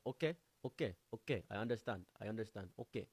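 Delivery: lightly put-on African accent; imitated African friend. African friend accepting the explanation, imitated African accent. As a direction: acknowledge it in a mild African accent. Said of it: "My African friend explained to me".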